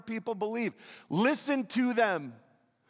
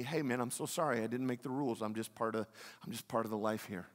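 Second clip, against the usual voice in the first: soft, much lower, shrugging apology; mock apologetic reply; 9 semitones lower, 9 dB quieter, faster than usual. Preacher voicing a believer answering an offended listener, soft and apologetic. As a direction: play it as a mild sorry-not-sorry answer.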